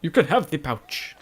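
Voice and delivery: slow, lightly voiced echo of the frightened guard; a hint of a scared guard handing over his pouch; mock pleading guard. Echoing the game guard's line.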